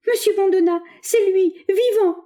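high, loud, astonished joy; cry of joyful surprise. A narrator's reading. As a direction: cry out in delighted disbelief. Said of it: "il poussa un cri de surprise et de joie".

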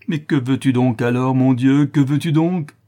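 loud, high exasperated question; desperate pleading. A narrator's reading. Notary begging to know what she wants, desperate. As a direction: plead at the end of your rope.

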